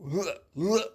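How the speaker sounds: a mild bird huffing while feeding; lightly voiced mother bird going huh; bird noise. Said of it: "the bird was going".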